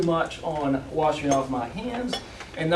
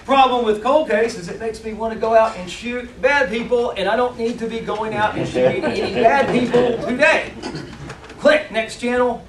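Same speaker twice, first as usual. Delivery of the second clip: excited channel surfing; 6 semitones higher, 4 dB louder than usual. Pretend. Pretends to channel surf.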